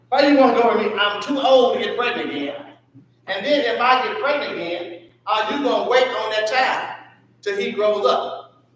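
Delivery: a hint of Naomi pleading; voicing Naomi. Preacher voices Naomi pleading.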